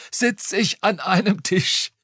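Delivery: a hint of a gossiping retired policeman; old policeman voice. A narrator's reading. Retired cop chatting to the detective over lunch, lightly voiced.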